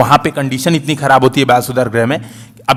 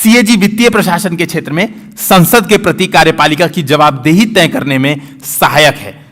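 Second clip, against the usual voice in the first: reading out the question. Shown as a demonstration. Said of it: "पढ़ रहा हूं।".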